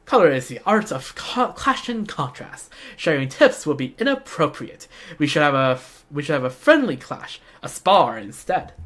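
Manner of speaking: deliberate, formal rival voice; acted rival, measured and firm; challenging rival designer. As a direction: lay down a friendly challenge in character.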